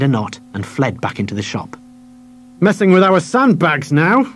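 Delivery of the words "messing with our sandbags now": slow, high, savage sneer. Acted. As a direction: spit it out with contempt. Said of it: "said the man savagely".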